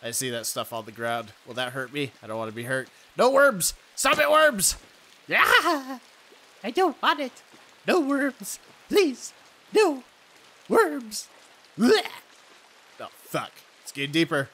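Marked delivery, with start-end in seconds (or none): 3.2-12.0 high, whiny plea; whiny pleading. Real, not acted. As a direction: beg the worms to stop. Pleading against worms.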